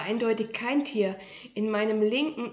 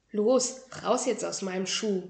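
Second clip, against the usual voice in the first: unfriendlier command. Acted. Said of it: "befahl ich, schon unfreundlicher".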